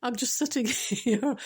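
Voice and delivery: tearful laugh breaking into the story; close to crying. Real, not acted. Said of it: "Go cry again".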